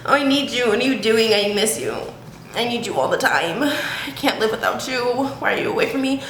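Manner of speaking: acted clingy pleading, pitch swinging; extreme needy. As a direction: play a mock-desperate clingy partner. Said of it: "That's, like, the extreme needy".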